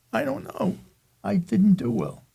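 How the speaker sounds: high-pitched kid's confession, lightly acted; sheepish child. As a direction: imitate a boy owning up to dad. Retelling himself answering father as child.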